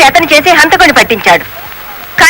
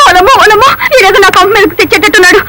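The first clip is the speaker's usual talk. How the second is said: alarmed lament; 5 semitones higher than usual. Acted. Woman wailing in alarm at trouble.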